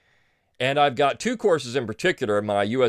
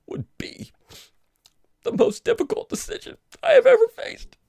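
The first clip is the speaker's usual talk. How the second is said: a whisper that cracks into a squeaky high wail; hammed-up sob through the quote; mock breaking down. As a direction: fake tears mid-reading. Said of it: "I choked up there".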